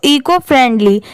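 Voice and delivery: "eco friendly" joined without a break; read as one word. Shown as a demonstration. Teacher showing learners how to join two words, "eco friendly" read together. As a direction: run "eco friendly" together as a single term. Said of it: "इसे साथ में पढ़ा जाता है".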